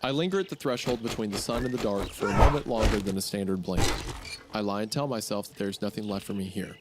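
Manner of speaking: measured, slowed first-person story read. Acted. S1 reads the story aloud.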